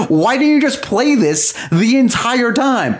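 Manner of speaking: high-pitched mock outrage; retold heckle, hammed-up scream without full volume; imitated screaming. Audience to theater staff over the bad print, mock screaming. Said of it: "so we're screaming".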